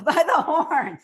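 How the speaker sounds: laughing. Real, not acted. Laughs at her own slip.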